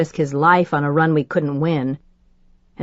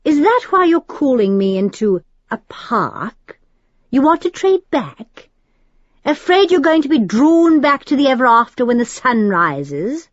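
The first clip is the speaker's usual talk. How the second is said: higher, mocking British demon voice; sneering noble demon, raised and louder; 6 semitones higher, 3 dB louder than usual. A narrator's reading. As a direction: taunt her like a smug aristocratic demon. Al voiced by narrator.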